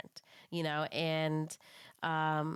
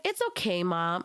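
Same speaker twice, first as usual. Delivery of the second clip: put-on child's voice. Voicing her kids' reply.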